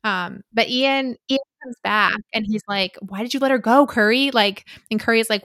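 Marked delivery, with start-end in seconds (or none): 3.0-4.3 put-on louder, accidental Scottish accent for a quote; attempted Scottish accent. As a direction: act out a reproach in a rough attempt at Scottish. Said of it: "I'm doing a Scottish accent".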